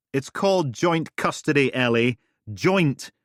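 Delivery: loud, insistent "Joint"; stress on joint. Acted. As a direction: hammer the word joint. Duncan insisting.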